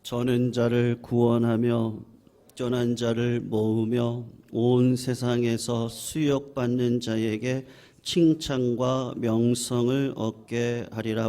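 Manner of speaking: slow, level-pitched reading aloud; scripture reading. Real, not acted. Pastor reads scripture to the congregation in a solemn monotone. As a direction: read it in an even, measured monotone.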